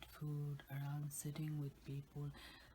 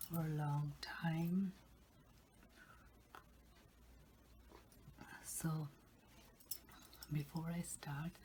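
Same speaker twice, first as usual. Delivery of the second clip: ASMR whisper. Real, not acted.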